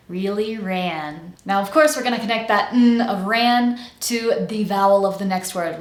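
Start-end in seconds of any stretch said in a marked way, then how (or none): 0.1-1.3 "Really ran" slowly, vowels nice and big. Shown as a demonstration. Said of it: "Make sure your vowels are nice and big".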